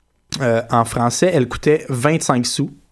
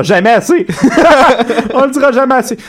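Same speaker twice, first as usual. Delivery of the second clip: laughing; 11 semitones higher, 6 dB louder than usual. Real, not acted. Laughing repeat of joke.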